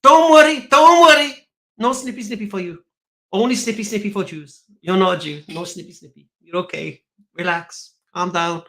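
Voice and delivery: calm everyone down in a hammed-up high voice; soothing disciples. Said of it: "and the disciples go".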